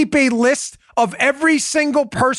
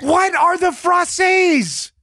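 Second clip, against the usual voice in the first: mock bafflement; 4 semitones higher, much slower than usual. Host plays a listener lost over frasses, mock baffled. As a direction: draw it out in exaggerated disbelief. Acted baffled reply to demand.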